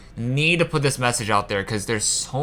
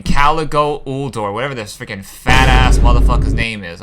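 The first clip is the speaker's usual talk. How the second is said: angry rant; 2 semitones lower, 6 dB louder than usual. Real, not acted. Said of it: "I'm getting pissed just talking about this".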